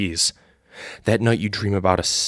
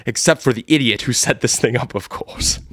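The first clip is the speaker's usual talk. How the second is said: Mister Jones sneering; 2 semitones higher than usual. Acted. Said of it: "He looks at you and says".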